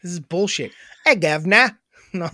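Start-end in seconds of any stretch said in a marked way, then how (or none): 1.0-1.8 mock British greeting; hammed-up British accent. Shown as a demonstration. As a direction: put on a cheeky English accent. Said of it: "British English accent".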